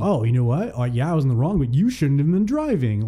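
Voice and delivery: mildly accusing, pitch climbing at the end; mock asshole. Driver imagines blaming the unlicensed teen, mock accusing. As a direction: play at being a jerk turning the blame. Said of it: "be that asshole and be like".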